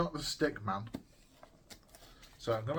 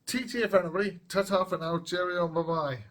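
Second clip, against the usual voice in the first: loud, high, bouncy farewell; cheery goodbye; 6 semitones higher, 6 dB louder than usual. Real, not acted. Signing off the video to viewers, loud and cheery. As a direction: wave everyone off brightly.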